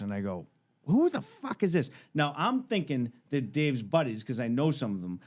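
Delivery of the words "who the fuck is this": mock angry demand. Confronting the caller on the phone.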